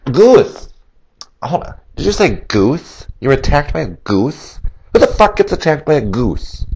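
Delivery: can't believe what they're hearing; 911 dispatcher hearing about the goose, incredulous. Acted. Dispatcher reacting in disbelief.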